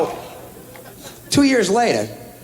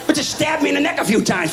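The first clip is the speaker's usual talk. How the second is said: put-on sarcastic kid; 8 semitones higher than usual. Sarcastic hurt kid to dad.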